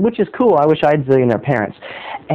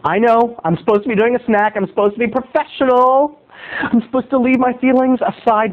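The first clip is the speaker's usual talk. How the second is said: higher, rising agitation; getting worked up; 6 semitones higher than usual. Acted. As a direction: fight to stay professional. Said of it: "I'm getting worked up".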